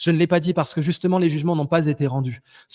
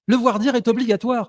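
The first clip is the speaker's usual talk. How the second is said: higher, firmer restatement; emphatic insistence; 5 semitones higher than usual. Real, not acted. Debater restating a legal rule to a resisting opponent, emphatic insistence. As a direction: lay the rule down in a raised pitch. Repeats the rule over objections.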